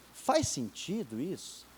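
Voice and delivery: softly and slowly ask faz sentido; soft, slow self-question. Shown as a demonstration. Preacher modelling a question for the listener, soft and slow. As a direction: ask yourself gently. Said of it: "você fala assim".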